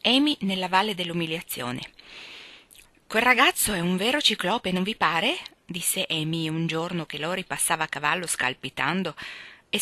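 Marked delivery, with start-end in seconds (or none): 3.1-5.4 put-on lightly raised girl's voice, teasing; a pert young girl needling her sisters; hint of a fussy schoolgirl; voiced Amy. Narrator voicing Amy.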